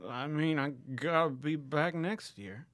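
high put-on hipster voice; lightly whiny character voice. Zen answering the interviewer, light put-on voice. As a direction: keep the Zen voice going.

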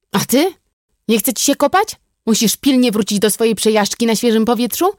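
icy sarcasm. A narrator's reading. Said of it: "W głosie brata podzwaniały sople lodu".

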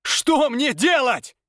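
a slow, high anguished call; high cry. A narrator's reading. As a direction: cry the question out. Repeated question, cry.

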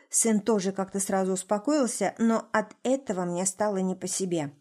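usual speaking voice

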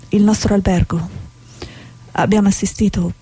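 grave, measured war report; news dispatch. Acted. Correspondent reporting deaths in Mogadishu, grave and paused.

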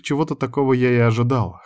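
usual speaking voice

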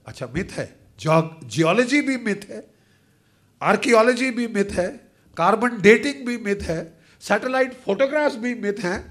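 rising, rapid sarcastic retort. Real, not acted. Mocking the myth dismissal.

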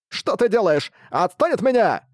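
high squeaky protest; squirming bat. A narrator's reading. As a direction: wriggle and squeak. Bat held by ear.

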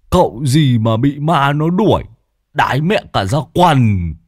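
high mocking jibe with a pout; scornful pout. A narrator's reading. Lâm Sẹo mocking the old medium, pouting scorn. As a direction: sneer at his bragging. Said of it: "bĩu môi".

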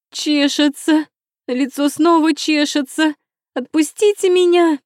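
high, loud desperate shrieks; frantic screaming. A narrator's reading. Tied-up princess begging to be released, frantic screaming. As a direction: scream from unbearable itching. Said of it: "закричала впечатлительная Чан Пин".

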